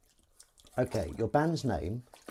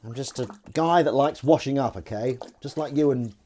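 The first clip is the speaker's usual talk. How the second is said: louder, higher argumentative guest; mock protest; 4 semitones higher, 6 dB louder than usual. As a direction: push back at the interviewer, raised voice. Acted interview, arguing with presenter.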